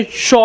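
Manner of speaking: श with the tongue wrapped up toward the palate; drawn-out palatal श; curled-up श. Shown as a demonstration. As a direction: curl the tongue up and hold श. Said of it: "लपेट के समेट के बोलेंगे".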